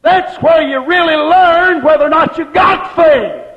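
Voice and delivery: loud, high, slowed proclamation; fervent preacher's call; preaching shout. Real, not acted. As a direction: drive the point home to the church. Preacher rising in fervour.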